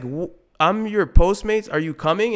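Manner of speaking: sarcastic customer. Retold or imitated. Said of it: "I'm just like".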